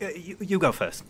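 lightly voiced, faltering offer; hesitant Kotul. Kotul to Yotul before slaps, a touch hesitant. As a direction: pass the turn over hesitantly. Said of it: "Kotul's like".

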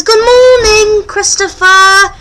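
high, drawn-out waffle greeting; talking waffle. Pretend. Waffle says good morning to its owner, high pretend voice.

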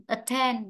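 "attend" repeated with weight on TEND; stress on second syllable. Shown as a demonstration. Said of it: "trong ấm sẽ rơi vào âm tiết thứ hai". ("attend" nhấn vào âm tiết hai)

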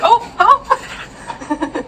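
high, slow drawn-out coo. Real, not acted. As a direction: coo hello to a puppy. Greeting the dog.

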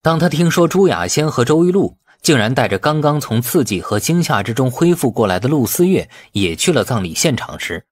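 plain reading voice

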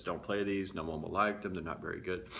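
low, subdued voice of self-doubt; inner critic. Acted. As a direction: lightly voice a discouraging inner critic. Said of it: "your inner critic says".

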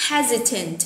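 HES-i-tant, weight on HES; first-syllable stress. Shown as a demonstration. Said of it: "Từ này nhớ là nhấn âm số một".

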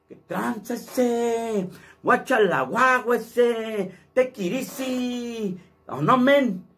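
high, slow cholo slang drawl; cholo accent. Shown as a demonstration. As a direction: challenge them like a street cholo. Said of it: "Así habla más o menos".

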